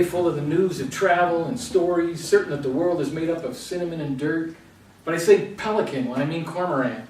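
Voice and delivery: rolling recital, phrase after phrase; poetry reading. Acted. Poet reads own poem about dreaming in Norwegian, poetry recital. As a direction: read the poem out in measured, flowing lines.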